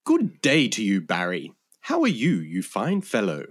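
put-on proper English accent, translating slang politely. Translator rendering Aussie slang for listeners, English accent. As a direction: greet him in courteous, lilting English tones. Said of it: "speaking in my genuine English accent".

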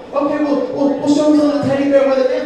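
high, insistent coaxing; concerned adult questioning child. Acted. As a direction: voice a fretful grown-up prompting a child. Acted adult questioning child with teddy bear.

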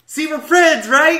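high, loud, mock friendly voice; butter up the killer cheerfully; a lightly voiced cheerful monster; sweet-talking Jason. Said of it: "he grabbed the person and was like".

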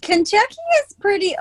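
a light middle school teacher tone. Real, not acted. Podcast host answering like a middle school teacher. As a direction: sound like you're explaining to a class, lightly. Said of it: "You sound like a middle school teacher now".

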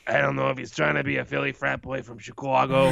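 put-on affected Philly frat boy voice; mock an actor's overdone American accent; put-on Chicago frat-boy impression; Colin Farrell's put-on voice. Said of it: "he's definitely doing a voice in this".

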